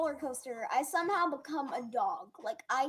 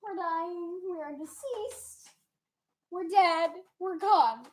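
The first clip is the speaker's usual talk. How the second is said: louder hammed-up panic, rising to a shout; mock panic; 4 semitones higher, 6 dB louder than usual. On the old ride to Jenna, hammed-up mock panic. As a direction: act out a roller coaster panic attack. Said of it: "I was like".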